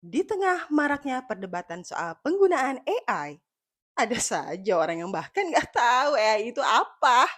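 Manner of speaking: smug commercial announcer; arrogant ad voice. Pretend. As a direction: read it like a haughty ad. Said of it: "Iklan, sombong".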